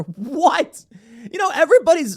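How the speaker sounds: high, loud incredulous outburst; laughing disbelief. Real, not acted. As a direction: burst out in amused astonishment. Astonished laughing reaction to quota.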